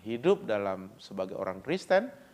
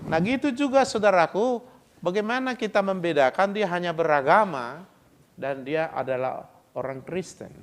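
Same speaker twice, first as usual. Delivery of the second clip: preaching loudly; 5 semitones higher, 6 dB louder than usual. Real, not acted. Preacher exhorting congregation.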